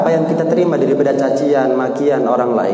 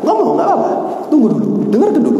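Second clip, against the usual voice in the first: mock agitated voice; 11 semitones higher than usual. Acting out a heated exchange.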